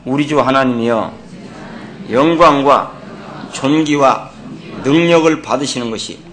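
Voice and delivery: measured reading in short separate phrases; leading scripture reading. Acted. Preacher leading the congregation through a verse, measured read-aloud. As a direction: pause after each phrase for others to repeat.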